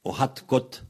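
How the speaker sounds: "Hat Kot" with hard final t; "Hat Kot" with crisp t endings; regional Breton variant. Shown as a demonstration. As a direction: say "Hat Kot", closing both words on t. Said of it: "dans cette région-là".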